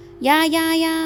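mock-begging onlooker, very slow and hushed; pleading bystander. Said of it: "ฟีลแบบ".

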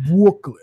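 "Brooklyn" with the B and R kissed together; kissed first letters. Retold or imitated. Remarking how the first two letters were kissed, lip-rounded "Brooklyn". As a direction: lips pursed on the start of "Brooklyn", R softened away. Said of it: "she kissed the first two letters".

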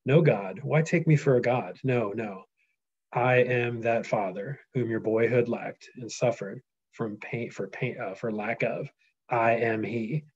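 steady storyteller reading; reading aloud. Acted. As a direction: reveal yourself gravely. Reads Odysseus' reply aloud.

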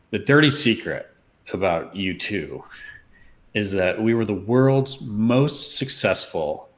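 lightly imitating a singer's Irish accent, drawing it out; weak Irish accent. A hint of the singer's Irish accent, confiding to the promoter. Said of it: "I can't do an Irish accent".

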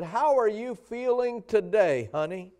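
lightly voiced mother asking after her daughter; a hint of a fond mom checking in; mild mock motherly phone voice; caring mom on the phone. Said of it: "she said".

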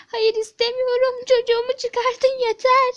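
loud, insistent demand; agitated refusal. Acted. Mother refusing clothes, demanding her child, loud and agitated.

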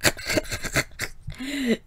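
breathless, unvoiced coughing laugh; a dry, wheezing cough of a laugh; scornful coughing chuckle. A narrator's reading. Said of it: "that coughing noise that was her laugh".

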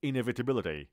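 Inevitability eased down a little; measured Inevitability with clearer syllables. Shown as a demonstration. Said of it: "آرومتر".

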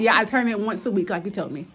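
talking with lip pulled down; speaking at the dentist; lip held down by finger. Real, not acted. Seen 0: Dentist's gloved finger holds her lower lip down while she talks.

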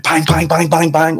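bang-bang-bang on the glass; rapid banging noise. Retold or imitated. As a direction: imitate frantic knocking in words. Imitates knocking on windscreen.

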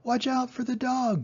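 very high warning bleat; the sheep warning Wilbur about the dog, very high; sheep crying out. A narrator's reading. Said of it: "cried the sheep".

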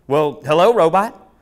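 high, loud delighted hello; excited greeting. Acted. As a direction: greet the robot with big excitement.

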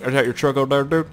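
mock Canadian truck-guy accent; put-on Canadian accent. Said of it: "you have to say it with that accent".

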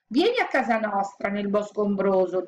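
a hint of a coaxing insect voice; mushroom mosquitoes. Wolf imitating mosquitoes' invitation, lightly coaxing.

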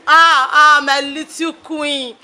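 slow drawn-out lament over "my little queen". Acted. Mother grieving her daughter, slow drawn lament. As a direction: stretch "my little queen" out slowly, mourning.

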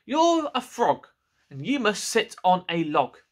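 slow, high know-it-all cat; a hint of a lecturing cat; bossy cat.

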